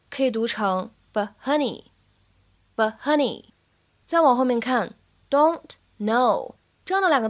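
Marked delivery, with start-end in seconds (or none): 1.1-1.9 "but honey" with the t in "but" held unreleased; unreleased stop. Shown as a demonstration. Teacher shows learners "but honey" with an unreleased t. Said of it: "不完全爆破的现象，可以读成". 2.8-3.5 "but honey" with the t in "but" held unreleased; unreleased stop. Shown as a demonstration. Teacher shows learners "but honey" with an unreleased t. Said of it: "不完全爆破的现象".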